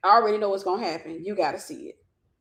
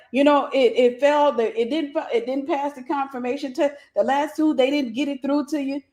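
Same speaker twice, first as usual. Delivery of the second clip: retold eager excitement, a touch raised; excited agent; 4 semitones higher than usual. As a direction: imitate the agent's excited explaining. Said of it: "now he over there excited".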